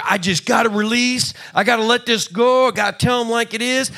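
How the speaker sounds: loud, high, pent-up burst; like a shaken can about to blow; urge to let loose. Retold or imitated. You, fed up, bursting to vent. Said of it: "You get that feeling like".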